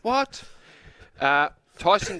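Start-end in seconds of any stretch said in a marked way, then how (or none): 0.0-0.4 incredulous. Retold or imitated. Incredulous repeated what.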